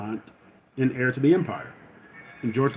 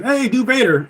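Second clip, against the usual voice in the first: laughing; 10 semitones higher, 6 dB louder than usual. Retold or imitated. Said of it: "if somebody comes on and says".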